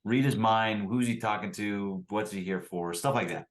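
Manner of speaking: usual speaking voice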